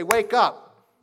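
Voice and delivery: loud sharp call of wake up. Shown as a demonstration. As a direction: shout it like waking a sleepy crowd. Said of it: "I might say".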